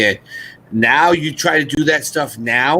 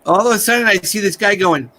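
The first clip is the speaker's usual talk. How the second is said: high-pitched excited puppet retelling; imitated high puppet voice; Peanut; 7 semitones higher, 4 dB louder, faster than usual. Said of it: "He goes".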